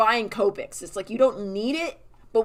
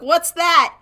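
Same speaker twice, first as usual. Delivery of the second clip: high, loud mock panic; panicky character; 10 semitones higher, 10 dB louder than usual. Character startled by the bird, mock panicky squeal. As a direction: squeal it like a spooked cartoon. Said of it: "He's like".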